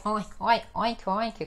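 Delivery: lightly imitated pig oinks; playful mock pig grunts; pig oinking. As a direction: toss off a few oinks like a pig. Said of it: "eu lembrei do porco".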